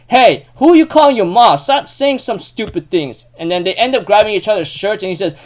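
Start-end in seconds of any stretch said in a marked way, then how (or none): 0.1-3.3 high, loud start to a mock telling-off; acted offended retort. Yuki answers Manabe's mom jibe, acted offended retort. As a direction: fire back, offended, then drag the words. Retold quarrel, firing back.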